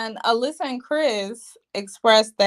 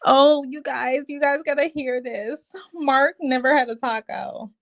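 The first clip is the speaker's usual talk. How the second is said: mocking Lindsay; 3 semitones higher than usual. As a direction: ham up her eager announcement. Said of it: "Lindsay was like".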